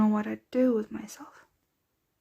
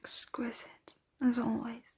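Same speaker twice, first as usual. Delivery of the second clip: hushed, breath-heavy appreciation after a drink; soft, sated murmur; savouring; 6 dB quieter than usual. Acted. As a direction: murmur it, lost in the taste. Savouring the taste just after feeding.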